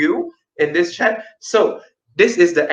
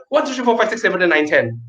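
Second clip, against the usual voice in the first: fast counting; faster than usual. Shown as a demonstration. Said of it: "do it together".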